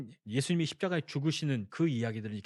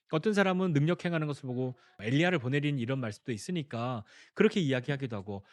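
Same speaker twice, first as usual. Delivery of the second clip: usual speaking voice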